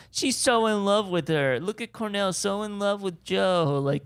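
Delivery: mock the couple like gossiping kids; teasing schoolkids. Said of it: "we don't want the kids going".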